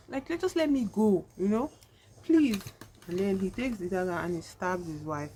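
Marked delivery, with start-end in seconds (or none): 0.1-2.6 high-pitched imitated plea, louder on the last word; acted desperate begging. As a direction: beg to be released, hammed-up. Acted wife begging to be released.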